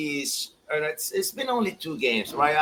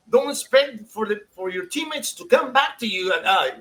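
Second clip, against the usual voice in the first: imitating the coach; 5 semitones higher than usual. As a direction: lecture the player from the sideline, hammed up. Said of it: "tells Peña".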